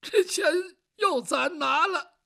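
high, tearful and sobbing; crying complaint. Acted. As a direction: whimper out the bad news. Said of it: "你哭什么呀？".

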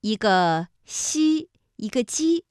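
西 and 鸡 drawn out with tongue-surface initials; pronunciation demo. Shown as a demonstration. Teacher isolates tongue-surface initials for learners, drawn-out demonstration. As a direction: hold 西 and 鸡 apart as example sounds. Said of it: "这都是舌面音连读".

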